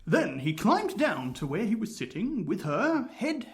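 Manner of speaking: Hugh Grant. Acted. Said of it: "he's got a Hugh Grant accent".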